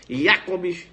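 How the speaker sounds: "Jacobs" as YA-cobs; correct pronunciation. Shown as a demonstration. Teacher acts the oral exam answer, German pronunciation. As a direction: open "Jacobs" with a Y sound. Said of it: "Agora quando você começa".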